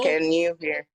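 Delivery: loud, up close to the mic. Real, not acted. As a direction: speak up loudly. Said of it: "I can barely hear you".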